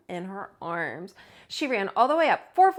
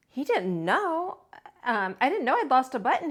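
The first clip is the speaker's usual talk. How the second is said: small bear voice; 3 semitones higher than usual. Acted. Bear talking to himself, puzzled. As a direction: wonder aloud like a little bear. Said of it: "he said to himself".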